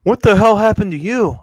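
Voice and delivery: angry mom. Retold or imitated. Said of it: "My mom's like".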